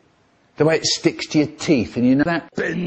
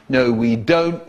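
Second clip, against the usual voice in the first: slow, lower repeat of a rebuke; firm scolding; 3 semitones lower, slower than usual. Acted. Teacher repeating the answer to the class, firm. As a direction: spell it out slowly, pitched down.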